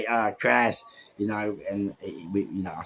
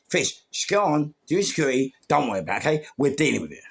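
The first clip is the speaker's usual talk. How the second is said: insistent, higher-pitched dismissal; retold brush-off; 5 semitones higher, 4 dB louder, faster than usual. Managers sending the security man back to work, dismissive. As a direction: imitate a manager firmly sending someone off.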